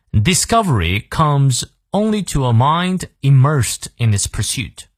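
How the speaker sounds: measured, deliberate model reading; slow quote reading. Shown as a demonstration. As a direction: read the English sentence slowly and clearly. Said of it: "他说".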